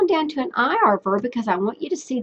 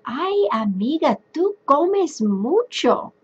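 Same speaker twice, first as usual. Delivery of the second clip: lightly voiced chatty tone to a friend; teacher playing a friend, a hint of teasing; friendly chat to a girlfriend; 5 semitones higher than usual. Shown as a demonstration. Teacher demoing talk to a friend, lightly playful. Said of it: "I might speak to you and I'd say".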